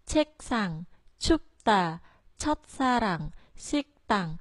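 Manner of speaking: 꽃집, 똑바로, 탁구 each begun high on a level tone; high level start. Shown as a demonstration. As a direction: start words like 꽃집 high and flat, never rising. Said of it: "Đọc thanh ngang ha".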